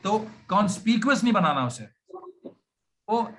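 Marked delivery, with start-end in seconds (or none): none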